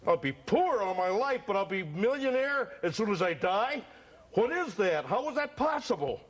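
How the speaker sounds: a confused client questioning the seer; pleading customer. Acted. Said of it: "the fortune teller".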